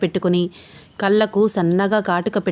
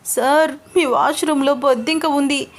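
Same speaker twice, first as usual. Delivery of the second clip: irritated; 6 semitones higher than usual. Acted. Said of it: "చిరాగ్గా face పెట్టి అంటోంది".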